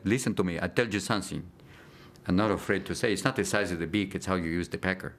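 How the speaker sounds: put-on Argentinian accent for a cartoon penguin; lightly acted Argentinian-accented character voice. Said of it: "Playing a little Argentinian penguin".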